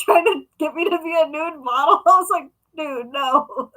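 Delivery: laughing through the words; laughing, incredulous retelling; amused disbelief. Real, not acted. Laughs while telling the nude-model offer.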